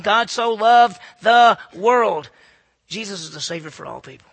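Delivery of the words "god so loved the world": slow emphatic quote. Acted. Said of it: "John three sixteen".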